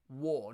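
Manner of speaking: WAR ending on the vowel, no R; soft R. Shown as a demonstration. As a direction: drop the R in WAR like a Cockney. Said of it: "The R is what I'm saying about".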